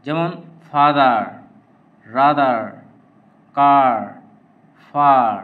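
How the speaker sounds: ফাদার said with a long open আ and no র; R dropped, long আ. Shown as a demonstration. Teacher showing the silent R in examples. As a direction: stretch the আ and drop the r. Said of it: "আ হিসেবে উচ্চারিত হয়".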